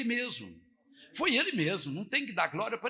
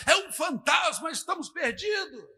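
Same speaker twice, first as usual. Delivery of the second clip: shouted high, terrified; panicked shout; 6 semitones higher, 4 dB louder than usual. Retold or imitated. Disciples screaming in the waves, high panicked shout. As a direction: yell it as if drowning.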